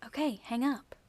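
lovey no you hang up; playful couple's phone goodbye; giggly late night call. Pretend. Mock lovers' phone goodbye.

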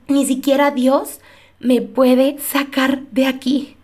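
slowed repeat, trailing into hopelessness. Retold or imitated. Scene: echoing her despair that even God can't save her, slowed right down. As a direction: let the echo sink and drag. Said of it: "llegué a decir con estas palabras".

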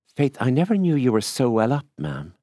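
high, loud admiring surprise. A narrator's reading. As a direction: marvel at her, then drop on "ma'am". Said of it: "looking at her admiringly".

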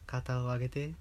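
breathy whisper; whispering anime girl. Retold or imitated. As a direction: whisper softly like a hypnosis voice. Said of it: "アニメ声が？".

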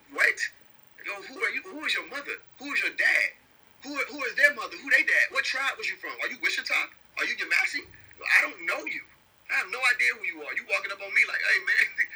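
Jesus quizzing a stranger, mock disbelief; incredulous Jesus. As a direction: grill a stranger who claims to know you. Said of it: "And he gonna be like".

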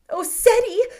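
high, loud anxious cry; cried out. A narrator's reading. Mother cries out to her son, high and loud. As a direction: call out to her boy in alarm. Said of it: "she cried out".

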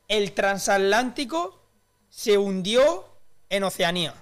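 over enunciating. Acted. Mouthing a hard phrase.

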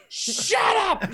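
high, loud mock yell back; mock shout. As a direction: snap back in a playful yell. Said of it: "And I go".

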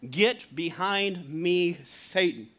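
Jesus rebuking Peter, slow and stern; stern rebuke. Retold or imitated. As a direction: deliver it slowly, sinking on the last word. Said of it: "Jesus turns and looks at him and says".

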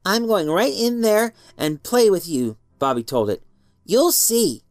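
put-on eager child. Boy promising the shadow.

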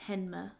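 "Hanmer" said HEN-muh; n before m in "Hanmer", softly insisted; correcting pronunciation. Shown as a demonstration. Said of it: "I'm pretty sure it's Hanmer".

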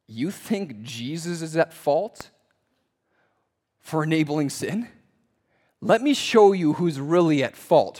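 Paul's rebuttal. Acted. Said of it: "he rebuttals them".

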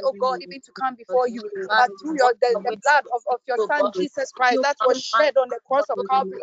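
pleading with God in short, pressing phrases; fervent pleading prayer. Real, not acted. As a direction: pray aloud urgently, punching each cry to God. Leads a prayer of repentance.

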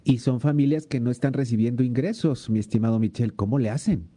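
caller sounding far from the mic; distant, like a phone held away. Real, not acted. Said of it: "te escucho muy lejos ahora sí".

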